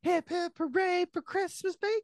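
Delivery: a chipper high-pitched hooray; high squeaky cheer. Retold or imitated. Quoting the movie cheer.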